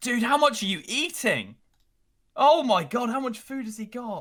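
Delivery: very high, anxious, swooping nervous exclaiming chatter. A gamer watches one of their team getting roasted, nervous. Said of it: "You sounded very nervous there".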